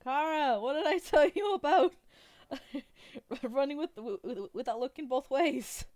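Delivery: mock-exasperated shouted scolding with laughter breaking in; scolding guardian. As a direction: call out loudly to scold a child. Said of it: "a woman say".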